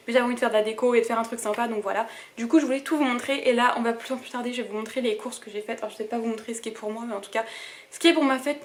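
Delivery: breathless after running around; talking while catching her breath. Real, not acted. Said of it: "Désolée, je suis essoufflée".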